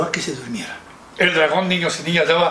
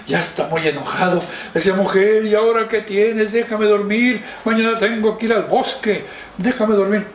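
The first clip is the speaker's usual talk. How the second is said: mildly angry dragon; 4 semitones higher than usual. Acted. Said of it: "se despierta muy enojado".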